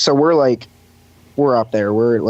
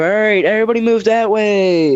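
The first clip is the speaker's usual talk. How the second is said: pitched-up, long-carried call, not truly shouted; crowd-clearing call; 9 semitones higher than usual. Retold or imitated. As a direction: re-enact calling out to move people aside. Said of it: "hadn't heard me".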